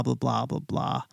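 normal talking voice

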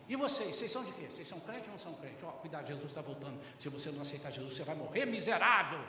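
mock fire-and-brimstone warning, building at the end; pushy doom-warning evangelist. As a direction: imitate someone hounding strangers with damnation. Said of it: "Eu não tenho que falar assim".

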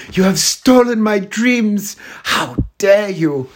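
high, slow, indignant speech; hammed-up outrage, slow and high; Greta Thunberg impression. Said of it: "I'll do my Greta Thunberg impression".

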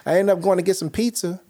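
high, loud, laughing retelling; cracking up while telling the pizza tale; laughing through story. Retold or imitated. Host laughing as he tells co-host about pizza.

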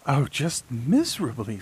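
lightly voiced complaining princess; a touch of a whiny princess; cartoon princess.

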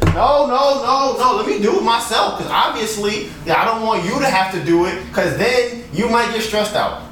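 high-pitched mock concern; sarcastic solicitude. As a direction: overdo the helpful concern, voice lifted. Sarcastic offer to scroll himself.

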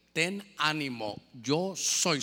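gentle reassurance. Acted. Lord's words repeated gently.

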